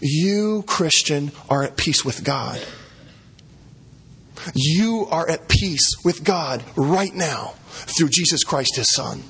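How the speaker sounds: slow, gentle reassurance; tender reassurance. Real, not acted. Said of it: "here's the gospel application".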